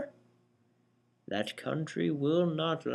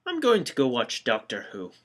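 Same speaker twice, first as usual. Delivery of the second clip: put-on slipping into a Scottish accent; accidental Scottish accent, tossed off; 3 semitones lower, faster than usual. Bored of the old men, leaving in a Scottish accent. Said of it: "I don't know why I'm Scottish now".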